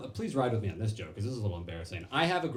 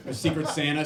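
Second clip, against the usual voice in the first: usual speaking voice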